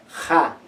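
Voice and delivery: ja as a soft friction sound; soft fricative. Shown as a demonstration. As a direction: breathe ja out softly. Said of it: "esta ja se hace más suave".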